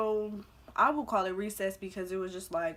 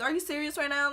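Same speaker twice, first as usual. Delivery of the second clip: mock disbelief; 7 semitones higher, 3 dB louder, faster than usual. Acted disbelief at rude eater.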